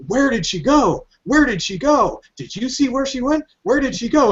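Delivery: high-pitched bickering guards, played for laughs; mock-baffled, voice swooping up and down; bewildered squad. Guards asking each other after she vanishes, hammed-up bewilderment. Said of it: "squad of people with machine guns are like".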